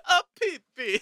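hammed-up Brooklyn Italian; Italian Brooklyn accent. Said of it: "an Italian Brooklyn accent".

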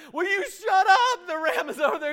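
high, loud irritated snap at the noisy ram; Abraham snapping at the ram, annoyed and loud. Retold or imitated. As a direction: bark it out, fed up with the ram. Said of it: "And he's like".

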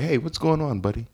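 mild acted concern; gently inquisitive. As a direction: ask lightly, trailing down on the last word. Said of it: "now I'm more inquisitive".

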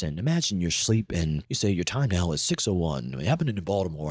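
lightly imitated calm morning anchor; Don Scott. Morning anchor waking a sleepy listener, gently calm. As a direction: read it smooth and even, a hint of newscaster. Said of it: "he had this nice calming voice, just like this".

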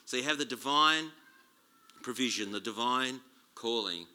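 lightly put-on preacher delivery; proper preacher. Shown as a demonstration. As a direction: have a go at sounding like a proper preacher. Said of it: "do it like a proper preacher".

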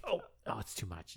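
whimpering Bill. Retold or imitated. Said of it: "He's like".

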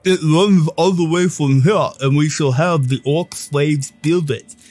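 proud official, lightly played; lightly voiced official.

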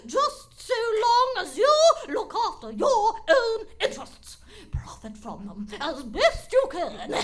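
put-on gleeful wicked old lady; evil old woman. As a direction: tempt him with cackling glee. Villain preaches selfishness.

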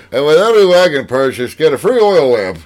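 announcer voice. Pretend. Mock wagon commercial.

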